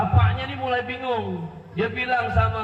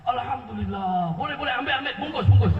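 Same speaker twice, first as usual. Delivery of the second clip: acted eagerness. Father accepting his daughter's suitor, mock eager delight. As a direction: play up a father snapping up an offer.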